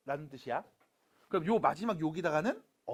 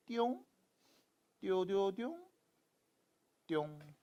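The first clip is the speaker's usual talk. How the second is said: playful boing sounds; 3 semitones higher than usual. Shown as a demonstration. Teacher sketching a sigma symbol for students, playful sound effects. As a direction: make little springy sounds for each pen stroke.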